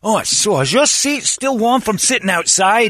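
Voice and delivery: mock whiny complaint. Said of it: "Thomas voiced in the hot car".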